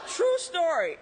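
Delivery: loud and high, still laughing. Real, not acted. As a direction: laugh through the words. Laughing after the punchline.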